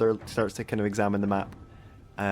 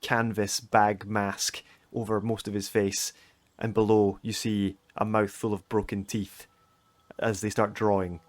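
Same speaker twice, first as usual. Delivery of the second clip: game master's scene setting. A narrator's reading. Game master describing an ambush in misty streets, suspenseful narration. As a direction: let the menace build with long pauses.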